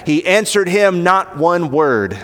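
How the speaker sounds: "He answered him not one word" slow and weighted; emphatic. Shown as a demonstration. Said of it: "it's emphatic".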